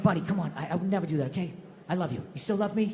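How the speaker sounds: put-on low, quiet pleading with his little girl. Dad softly reassuring daughter.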